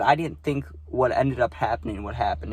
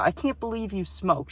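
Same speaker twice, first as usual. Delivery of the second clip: mock girl voice; 6 semitones higher than usual. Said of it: "She said that too".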